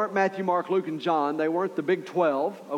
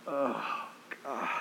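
weary groan; 6 semitones lower, 12 dB quieter than usual. Retold or imitated. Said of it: "Jesus has gotta be going".

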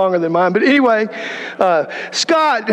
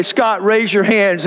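plain. Retold or imitated. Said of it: "heard the voice say".

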